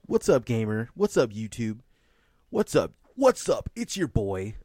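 hyped streamer greeting, rising; gamer streamer intro. Pretend. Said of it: "being a gamer".

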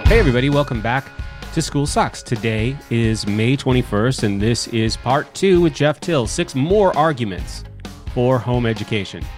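stuffy nose from allergies; talking through a blocked nose. Real, not acted. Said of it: "sounds like I've got a clothespin on my nose".

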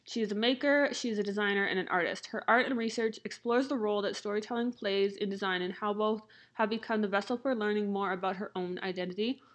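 talking around a mouth retainer; slight lisp, plastic in the mouth; lisp from jaw surgery. Real, not acted. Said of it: "so if it sounds like I have a lisp".

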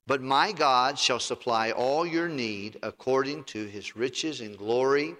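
reading aloud together. Shown as a demonstration. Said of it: "Let's read it out loud together".

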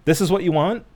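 sarcastic, rising pushy offer; mock the streaming service's pitch; mocking sales pitch.

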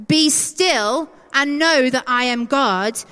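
slow, emphatic proclamation; firm command. Acted. God commanding us to stop, firm and weighty. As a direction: declare it as God's order, each phrase weighted. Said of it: "is God commanding us to stop".

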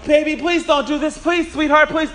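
high, anxious pleading; pleading mother. Retold or imitated. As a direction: beg like a desperate mom. Mother pleading with out-of-control boy.

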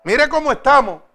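exhorting the flock; preaching. Real, not acted. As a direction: preach it firmly to the congregation. Preaches to the congregation.

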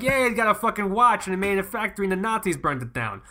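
mock the expert with a careless loud take; crude retelling. Contrasting the fancy expert with a crude loud version. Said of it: "no, it's just like".

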